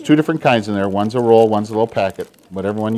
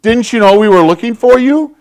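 high, loud, worried mother scolding her lost son; higher and louder, a frantic parent's reproach; 10 semitones higher, 8 dB louder than usual. Retold or imitated. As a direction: play the panicked mom who finally found her boy. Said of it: "his mom looks at him and he goes".

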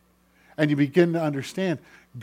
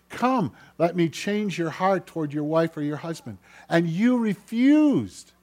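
God; 4 semitones higher than usual. Acted. Preacher as God calling to change hearts, reproachful. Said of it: "and he's calling you".

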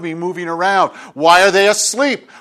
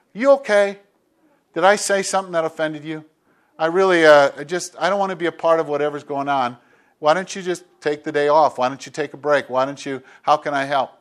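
gentle concern; 3 semitones lower, 4 dB quieter than usual. Retold or imitated. Gently approaching a hurting person.

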